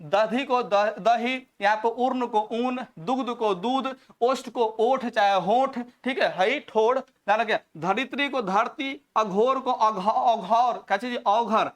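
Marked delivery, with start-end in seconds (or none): 0.0-5.8 slow dictation. Shown as a demonstration. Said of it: "तो पढ़ लीजिए". 7.8-11.7 slow dictation. Shown as a demonstration. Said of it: "तो पढ़ लीजिए".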